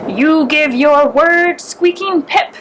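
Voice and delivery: slow, mocking big-cat voice, a touch of a laugh; lion amused by the mouse's impertinence, slow. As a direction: tease the little mouse from on high. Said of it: "asked the lion, laughing".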